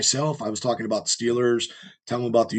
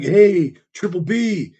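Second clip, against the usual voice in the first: higher, louder friendly hail; imitating Antonio Brown; 6 semitones higher, 6 dB louder, much slower than usual. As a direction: play the star greeting his fan. Antonio Brown greeting him.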